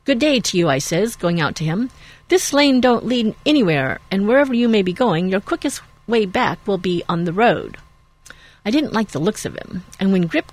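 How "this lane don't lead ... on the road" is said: raised, brisk no-nonsense farmer; firm farmer warning. Acted. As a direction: tell him off firmly. Farmer confronts the rider.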